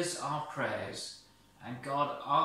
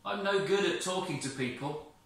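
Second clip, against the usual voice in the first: shy Moses; 6 semitones higher than usual. Acted. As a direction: plead your shyness. Moses protests.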